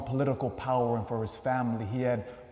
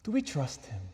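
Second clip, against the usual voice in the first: softer "Do we trust Him", falling at the end; quiet questioning; 5 dB quieter than usual. Real, not acted. Preacher leaves the question with the congregation, quiet and falling. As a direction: let the question drop softly after a pause. Same question repeated after a pause.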